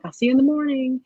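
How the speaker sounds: put-on high, lilting goodbye to a child; parent's retold goodbye. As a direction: call a sweet goodbye to your son. Mother's goodbye to her son.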